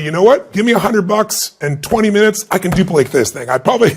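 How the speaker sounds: playful ribbing of a friend; lightly mocking boast about copying the painting; teasing. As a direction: tease him, half joking. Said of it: "I look to him teasingly and facetiously".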